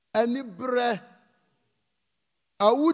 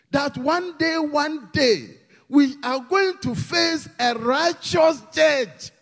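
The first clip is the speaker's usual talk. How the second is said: rising preach; 3 semitones higher, slower than usual. Real, not acted. Preaching climax.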